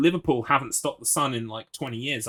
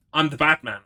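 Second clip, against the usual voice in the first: mock dramatic; 3 semitones higher, 7 dB louder than usual. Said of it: "what I need to discover".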